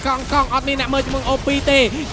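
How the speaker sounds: live play-by-play. Real, not acted.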